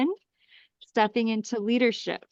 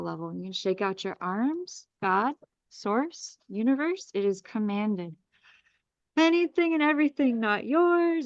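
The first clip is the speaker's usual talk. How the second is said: soothing spiritual healer leading a breathing meditation; guided clearing. Acted. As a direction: guide the group through a calm energy clearing. Leads a group energy clearing.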